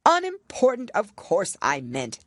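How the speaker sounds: loud, flustered self-correction; hasty king. A narrator's reading. King hastily fixing his mistake to the Rabbit. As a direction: cover the slip quickly. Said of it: "the king hastily said".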